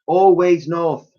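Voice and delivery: high slow calm reply; knowing girl. Acted. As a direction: say it like a destiny. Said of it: "replied the girl".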